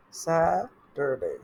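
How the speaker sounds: "স্যাটারডে" slowly, as "sa... tur-day"; split into syllables. Shown as a demonstration. Teacher shows the better way, "স্যাটারডে" slowly broken as "sa... tur-day". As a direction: break "স্যাটারডে" after a long first "sa". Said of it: "এভাবে বল".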